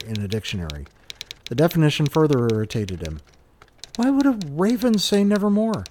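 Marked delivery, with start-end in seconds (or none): 4.0-5.8 pirate voice. Acted. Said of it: "said George".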